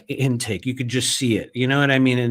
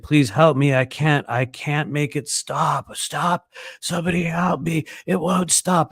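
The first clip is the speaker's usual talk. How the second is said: mild desperate pleading; 4 semitones higher than usual. Retold or imitated. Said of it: "he's like".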